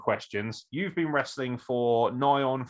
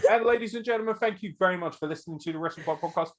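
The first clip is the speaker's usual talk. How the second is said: mock podcast sign-off; 4 semitones higher than usual. Host pretending to end the show early, mock sign-off. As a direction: pretend outro patter, partly rushed.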